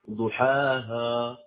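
slow ضحاها with a thickened final ها; faulty drawn-out recitation, heavy ها in ضحاها; wrong heavy ha. Shown as a demonstration. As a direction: mispronounce ضحاها, darkening the last syllable. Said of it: "فمنهم من يفخمها".

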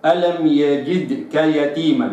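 يجدك with the kasra changed to sound like "al-jidd"; ألم يجدك read the wrong way. Shown as a demonstration. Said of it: "لا أقرأها".

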